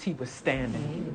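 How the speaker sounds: low, slow and hushed; understated statement. Real, not acted. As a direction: let it land quietly and slowly. First statement before exclaimed repeat.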